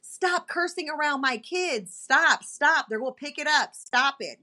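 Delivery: a touch of angry pleading; retold mad scolding. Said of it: "so mad at him".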